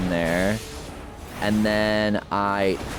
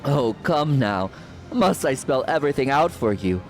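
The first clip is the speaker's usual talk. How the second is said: higher, mocking villain taunt; slow theatrical villain menace; 4 semitones higher than usual. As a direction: gloat over the coming battle. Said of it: "I love playing a villain voice".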